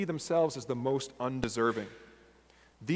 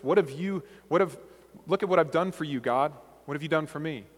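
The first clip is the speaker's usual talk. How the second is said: mild indignant demand; entitled demand; 2 semitones higher than usual. Shown as a demonstration. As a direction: push it like you're owed something. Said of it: "You hear the difference in those perspectives?".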